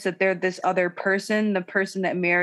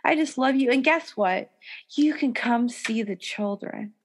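imitating Robin; 3 semitones higher than usual. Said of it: "take her into the woods and be like".

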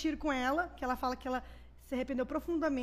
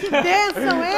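much louder, laughing celebration; real loud exclamation; 2 semitones higher, 14 dB louder than usual. Real, not acted. Guest reacting with the hosts to the atheist boyfriend, laughing shout. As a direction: burst out cheering through laughter. Joking cheer at atheist reveal.

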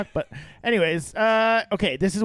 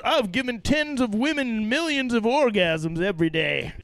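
imitating James; 2 semitones higher than usual. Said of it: "James said".

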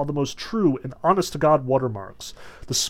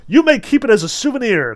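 raised, high theatrical cry; 8 semitones higher, 7 dB louder than usual. A narrator's reading. Fagot to the man holding the deck, crying out. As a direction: call it out, high and loud. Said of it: "cried Fagot".

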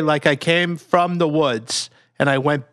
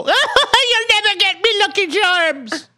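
put-on taunting kid. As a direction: jeer it back over your shoulder as you flee. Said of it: "I scamper and go".

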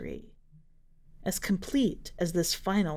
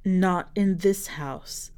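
slow stern warning; much slower than usual. Acted. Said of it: "said Sister Penangalan".

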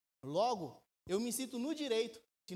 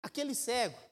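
lightly raised voice of the Spirit giving a gentle order; a hint of a higher divine voice; Holy Spirit speaking; 5 semitones higher than usual. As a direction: voice the Spirit telling the writer what to write. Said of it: "Imagine o Espírito Santo falando assim".

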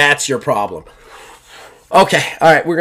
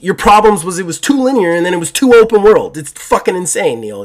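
furious ranting; 4 semitones higher than usual. Real, not acted. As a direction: pile on the insults in disbelief. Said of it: "I'm actually furious right now".

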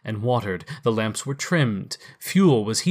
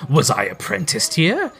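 put-on higher, eager old man; excited Scrooge; 5 semitones higher, 3 dB louder than usual. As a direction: wonder at the old place. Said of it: "cried in great excitement".

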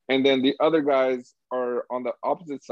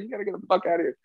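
higher imitated threat; mock furious order; 6 semitones higher, faster than usual. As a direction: bark it like a raging employee. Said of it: "He's like".

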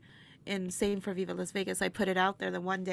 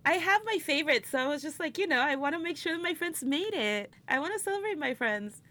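higher and louder, bubbling over about friends; real excitement, rushing out higher; excited gushing; 7 semitones higher, 3 dB louder than usual. Real, not acted. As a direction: gush about the friends you love.

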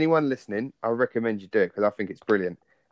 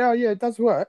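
imitating army official; 11 semitones higher than usual. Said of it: "At least they can say".

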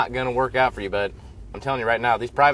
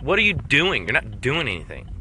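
angry rant; 3 semitones higher than usual. Acted. Rant skit at soldier Bill.

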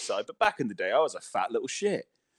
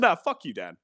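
mock critic. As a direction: squeak out the critics' insult. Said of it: "Oh, they said".

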